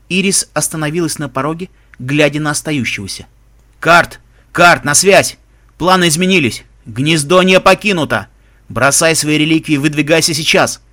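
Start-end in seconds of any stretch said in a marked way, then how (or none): 3.8-10.8 tinny pocket radio. Acted. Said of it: "Донёсся голос из приёмника".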